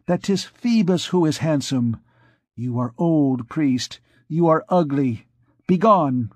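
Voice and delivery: put-on high young girl voice, scornful; triumphant girl. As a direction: taunt the old priest. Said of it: "She thought herself victorious and continued".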